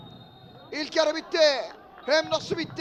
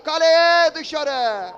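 excited commentary; 6 dB louder, much slower than usual. Real, not acted. Near miss called out.

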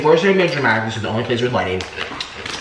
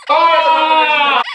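high shout begging to stop; 9 semitones higher, 3 dB louder than usual. Real, not acted. Husband being hit yells at partner to stop.

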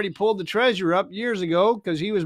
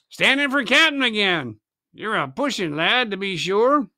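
lightly voiced sly pirate captain; cool pirate. Silver mocking Merry's bid for captain. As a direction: needle him, unbothered. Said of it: "remarked Silver".

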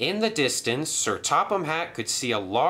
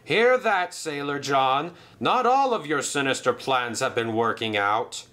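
triumphant taunt; 4 semitones higher than usual. Acted. Hatt triumphant.

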